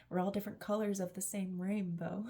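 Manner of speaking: tearful. Real, not acted. Emotional, cry heard.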